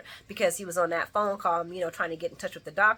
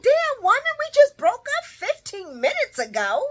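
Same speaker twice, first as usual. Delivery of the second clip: male character voice; 6 semitones higher, 5 dB louder than usual. Retold or imitated. Retold soap scene, man pleading.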